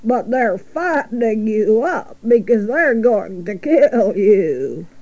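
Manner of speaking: lightly voiced old sheep; a hint of a drawling ewe breaking bad news; old sheep, mildly put on.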